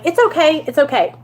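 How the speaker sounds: soothing, lifted then easing down; retold reassurance. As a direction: reassure someone who is upset. Comforting the sobbing man.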